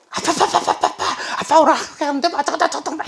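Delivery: very high, fast mock child chatter; hammed-up squeaky rapid-fire kid voice; high-toned chatty daughter. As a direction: gabble excitedly like a daughter pestering dad. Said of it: "보통 하이톤으로 막 빨리 얘기하겠죠".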